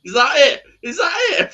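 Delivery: very high, incredulous taunt; retold taunt. Taunting whoever punched him at school, high and scornful. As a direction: throw it back high-pitched at a weak puncher.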